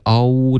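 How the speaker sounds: "嗷" with pouting lips, an "ow" vowel; wrong rounded sound. Shown as a demonstration. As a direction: show the mistaken "嗷" in place of a final L. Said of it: "别用成一个嗷的音".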